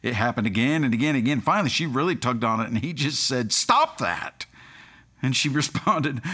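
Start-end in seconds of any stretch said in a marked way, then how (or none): 3.5-4.4 sudden high-pitched mock outburst; exasperated. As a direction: imitate a dad finally losing patience. Exasperated dad finally snaps at toddler.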